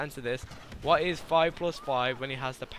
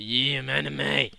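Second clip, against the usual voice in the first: a slow, put-on anime fan; lightly voiced anime guy; slower than usual. Player imagining anime guy's reply, lightly mocking voice. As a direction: stretch it out as a mock anime guy. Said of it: "And anime guy is like".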